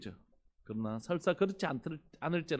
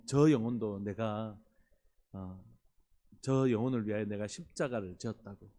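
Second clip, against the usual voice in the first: Jesus interceding; 4 semitones lower than usual. Retold or imitated. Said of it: "예수님께서 어떤 말씀하시냐면".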